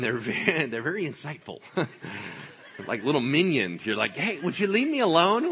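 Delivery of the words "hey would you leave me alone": annoyed protest. Acted. Acts Peter fending off servant girls.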